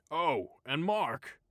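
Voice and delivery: calling back. A narrator's reading. Boss calls back at door.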